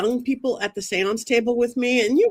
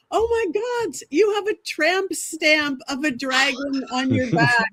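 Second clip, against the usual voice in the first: astonished; 4 semitones higher than usual. Retold or imitated. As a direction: gasp in amazed disbelief. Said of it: "I'm like".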